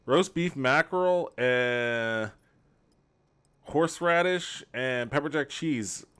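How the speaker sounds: disbelief. Real, not acted. Repeats the odd sandwich.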